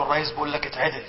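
the prime minister murmuring into the sheikh's ear; hushed whisper. Retold or imitated. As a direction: murmur "اتعدل" softly, as into someone's ear. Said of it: "وهمس في أذن الشعراوي".

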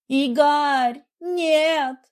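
high, loud desperate cry; wife begging not to go to hospital; panicked plea. A narrator's reading. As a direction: beg him, terrified.

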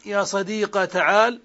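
صديق ends in a long a; ya turned to alif. Shown as a demonstration. Teacher showing ya changed to alif. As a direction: stretch صديق into sadiqa. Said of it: "قلب الياء ألفا".

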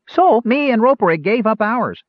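put-on high, loud young gnome voice; eager gnome. A narrator's reading. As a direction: blurt it out eagerly. Gnome Fitter speaks.

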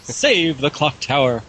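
put-on high, slow shrieking old lady. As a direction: scream it like a frantic old woman. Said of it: "my stock, uh, postmenopausal old lady voice".

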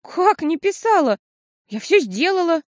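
put-on bewildered girl defending herself; confused. A narrator's reading. Girl flustered by her mother's question. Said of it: "смутившись".

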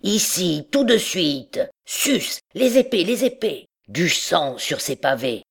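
high, bursting cries of rage; stammering with anger. A narrator's reading. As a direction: challenge to a duel in broken, high-pitched bursts. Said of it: "puis bégayant, car la colère fait trembler". (colère bégayante, cris aigus et hachés)

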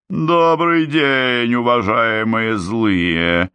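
high, slow, sugary fairy voice; drawn out, mockingly sweet and high; Glinda's greeting. Glinda greets the wicked witches from above, sugary and high. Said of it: "Глинда говорила очень тихо".

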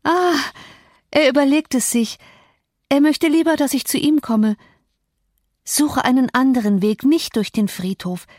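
a hint of a feverish wife smiling at a ghost; grand smiling Catherine. A narrator's reading. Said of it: "mit großartigem Lächeln fort".

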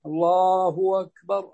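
slow "Allaahu wakbar" for الله أكبر; hamza turned waw. Shown as a demonstration. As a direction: link الله to أكبر with a w in place of the glottal stop. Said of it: "جاز أن تقلب واوا". (قلب همزة "أكبر" واوا)

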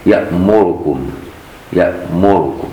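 يأمركم with the final mim given a full u; يأمركم with full damma. Shown as a demonstration. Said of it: "وباقي القراء بضمة خالصة". (يأمركم بضمة خالصة)

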